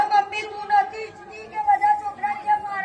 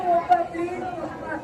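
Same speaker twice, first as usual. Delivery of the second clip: pleading; 3 semitones lower, 4 dB quieter than usual. Acted. Son begging father for shoes.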